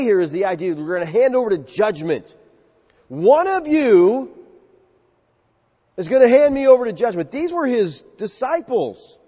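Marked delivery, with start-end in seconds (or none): 3.1-7.3 solemn announcement. Acted. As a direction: drop the news on them gravely. Preacher voices Jesus' announcement.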